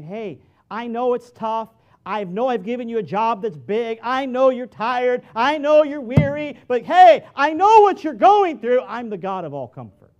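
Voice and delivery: building to a loud, high, slow proclamation; God's reassurance to the weary, rising to a shout. Acted. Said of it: "God is looking down from heaven saying".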